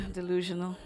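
loud laughter spilling into the words; struggling to stop laughing. Real, not acted. Preacher composing himself before the congregation, still laughing.

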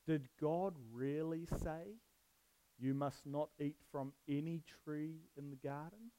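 slow, drawn-out sly serpent; lightly voiced crafty snake, slowly; serpent's question. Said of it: "He said to the woman".

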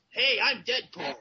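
attempted cool-guy Deadpool voice; lightly put-on cool hero introduction. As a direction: play it cool, only slightly put on. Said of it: "I'm gonna do my cool voice".

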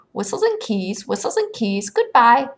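high, rasping cry from memory; raspy character voice calling after someone. A narrator's reading. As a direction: call out in a rasp, rising on the goodbye. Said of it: "a rasping voice scratched".

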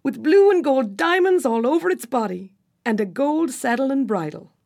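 high and bright, eager to describe it; happily. A narrator's reading. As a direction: rattle off the dream mare, delighted. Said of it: "said Trembling happily".

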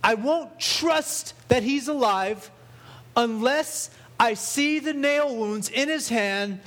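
drawn out and stubborn, a touch high; Thomas doubting. Retold or imitated. Preacher voicing Thomas refusing to believe, slow and stubborn. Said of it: "but he replied".

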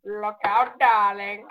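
Bubbles voice. Acted. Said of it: "I've turned into Bubbles".

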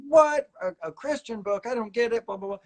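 high-pitched imitation of baffled objectors; mock disappointed disbelief. Students balking at the author's Christian book, mock disappointed. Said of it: "responded in the same way".

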